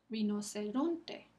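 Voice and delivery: slow "Rinoceronte", emphasis on RON; stress on RON. Shown as a demonstration. Teacher repeats for students, slow stress on RON in "Rinoceronte". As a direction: lean on the next-to-last syllable of "Rinoceronte".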